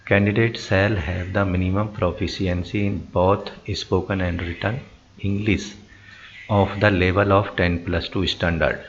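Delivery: slow, word-by-word reading of the notice; slow reading aloud. Acted. Reading the job advert slowly for viewers. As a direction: read the official wording out slowly, x0.5.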